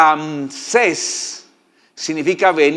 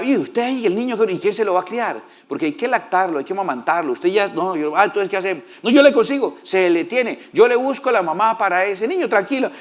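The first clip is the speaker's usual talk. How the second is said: higher, lively meddling sister; lightly voiced sister; 4 semitones higher than usual. Sister reassuring the pharaoh's daughter, lightly higher and eager. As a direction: play the bossy sister fixing everything. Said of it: "O sea".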